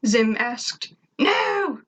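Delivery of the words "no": high, sharp no; irritated alien shout; annoyed shout. A narrator's reading. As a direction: snap it out angrily. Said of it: "Tak shouted with annoyance".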